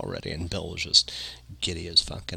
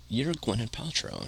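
higher, softer mock of a tipsy friend; lightly imitated drunken certainty; drunk friend, retold; 4 semitones higher, 6 dB quieter than usual. Drunk friend telling Cameron who she is, lightly mocked insistence.

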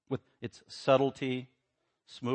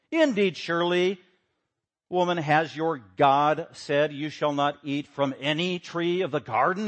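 sly serpent; 4 dB louder, slower than usual. Acted. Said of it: "Satan misquotes the Bible".

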